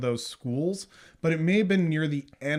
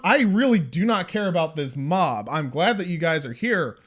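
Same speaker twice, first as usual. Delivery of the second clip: passionate movie hero; 3 semitones higher, 8 dB louder than usual. Retold or imitated. Co-host acting out a hero rallying against the monster, passionate. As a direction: declaim it like an impassioned monster hunter. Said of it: "They're passionate. It's like".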